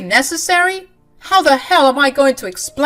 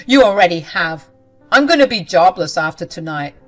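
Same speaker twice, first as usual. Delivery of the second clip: louder, bitter and accusing; bitter shout; 10 dB louder than usual. Acted. Husband yells that wife ruined his life, bitter shout. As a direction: throw it back at her loudly.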